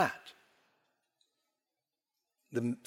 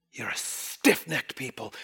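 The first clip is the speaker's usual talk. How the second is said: low, soft, pointed charge; quiet accusation; 3 semitones lower, 6 dB quieter than usual. Acted. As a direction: say it softly but cutting.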